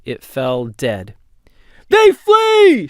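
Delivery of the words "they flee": high, loud call across the carts; triumphant shout. A narrator's reading. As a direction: shout the news to the line. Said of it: "shouted Erlach".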